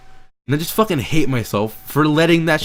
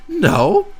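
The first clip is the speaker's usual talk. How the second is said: sharp emphatic no; 4 dB louder than usual. Real, not acted. Emphatic self-answer in rant.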